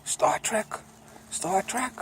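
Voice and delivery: high, disbelieving "Star Trek?"; mock amazement. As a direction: scoff like a baffled old-timer. Mock old-timer surprised at phones.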